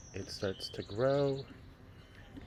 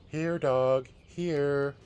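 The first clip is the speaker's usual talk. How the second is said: louder, higher come-here call; calling the dog; 5 semitones higher, 7 dB louder, much slower than usual. Acted. Daughter calling the dog to come help, coaxing call.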